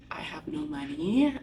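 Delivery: sussurro disperato, quasi senza voce; whispered despair. Retold or imitated. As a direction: mormora tra sé, svuotata. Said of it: "whisper heard".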